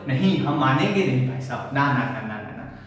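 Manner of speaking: lightly voiced sulky uncle, falling away; sulking uncle refusing. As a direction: play a huffy uncle who won't budge. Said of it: "नाराज फूफड़". (रूठे फूफा की तरह मना करना)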